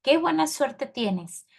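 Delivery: emphatic, slow, excited exclamation. Shown as a demonstration. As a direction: exclaim it as if thrilled by their luck. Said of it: "me suena que está como emocionado o exaltado".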